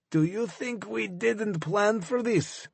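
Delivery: slow, high snarl through gritted teeth. A narrator's reading. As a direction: spit it at him in pain and hate. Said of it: "snarled through gritted teeth".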